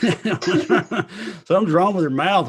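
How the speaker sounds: alarmed onlookers. Pretend. Guest imagining reactions to host's childhood accent, mock alarm. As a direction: laughingly play baffled neighbours, voice pushed up. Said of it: "everybody else around you was like".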